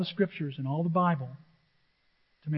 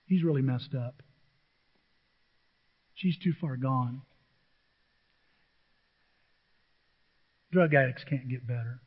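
low, softly resigned verdict; dismissive judgement; 5 semitones lower, 4 dB quieter than usual. Acted. Churchgoers sizing people up, quietly dismissive. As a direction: write them off under your breath.

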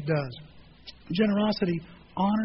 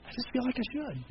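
much softer, almost to himself; soft resolve; 4 semitones higher, 6 dB quieter than usual. Retold or imitated. Pastor to congregation, retelling his quiet resolve to sell. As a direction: say it quietly like a private decision. Quiet conviction about selling tractor.

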